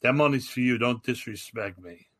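understated, dead-serious threat; retold serious warning. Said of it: "he got really serious".

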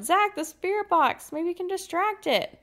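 loud urgent call to Zach; shouting. Acted. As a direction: shout his name to get his attention. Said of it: "you shout".

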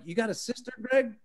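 joking. Retold or imitated. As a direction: toss it off as a joke. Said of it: "Completely jo".

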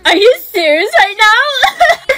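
slow high outraged cry; upset disbelief. Acted. Shocked at the ban.

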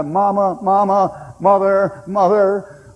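retold screaming for mother. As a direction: call out for mother like a wounded soldier. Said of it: "that man was screaming".

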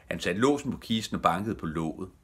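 ordinary delivery

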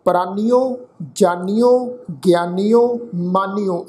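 ਪ੍ਰਾਨੀਓ and ਜਾਨੀਓ ending in a clear -nio; ਜਾਨੀਓ with hora o on the end; careful pronunciation. Shown as a demonstration. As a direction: sound each syllable of ਪ੍ਰਾਨੀਓ, ਜਾਨੀਓ distinctly. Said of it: "ਪਾਠ ਹੈ ਜੀ ਮਾਨੀਓ".

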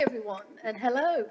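usual speaking voice

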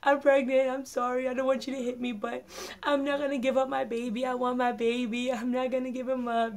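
mock-crying plea, no real sobs; retold tearful plea. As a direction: retell your own teary confession, mildly acted. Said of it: "I'm crying".

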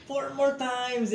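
slow, loud coach call; loud slow count. Retold or imitated. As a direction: call it out slowly to the class. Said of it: "I just say".

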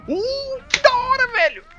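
very high, loud and delighted; thrilled squeal. Real, not acted. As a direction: squeal it with pure excitement. Thrilled by a wrestling move.

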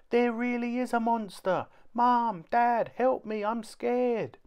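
very high, loud, frightened plea; a scared little boy begging parents for help; frightened child. A narrator's reading. Kipper frightened, calling Mum and Dad.

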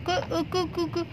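high, soft peeping; chick peeps. Acted. Frightened chick hides from the cat, high soft peeps.

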